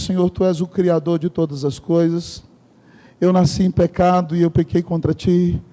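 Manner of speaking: low, earnest prayer; a hint of a devout surrender; lightly voiced prayer. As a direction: pray it humbly and sincerely. Woman's prayer retold.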